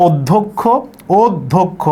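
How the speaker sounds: অধ্যক্ষ said as "od-dhok-kho"; demonstrated pronunciation. Shown as a demonstration. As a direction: say অধ্যক্ষ carefully, doubled consonants clear. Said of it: "এই উচ্চারণটা হচ্ছে".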